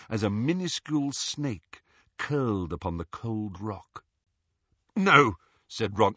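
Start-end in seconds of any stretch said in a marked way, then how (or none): 5.0-5.4 higher, louder no; alarmed refusal. A narrator's reading. Ron begging Harry not to open the locket, alarmed. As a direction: protest with mild alarm.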